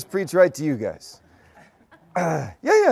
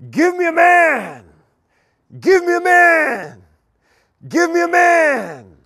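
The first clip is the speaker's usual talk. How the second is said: giant's shout; 11 semitones higher, 8 dB louder than usual. Retold or imitated. Goliath taunting the Israelite army, booming giant shout. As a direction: roar it across the canyon like Goliath. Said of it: "he cries out in his great giant voice".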